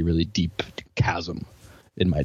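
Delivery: hushed dramatic whisper. Acted. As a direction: drop to a whisper for chasm. Dramatic whisper on deep chasm.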